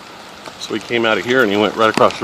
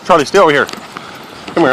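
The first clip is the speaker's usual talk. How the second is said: calling out; 8 semitones higher, much faster than usual. Real, not acted. Calling the dog back.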